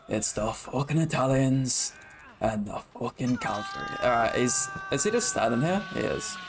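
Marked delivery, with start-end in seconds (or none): 0.1-3.9 Thomas Shelby impression. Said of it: "I'm trying to do Thomas Shelby impression".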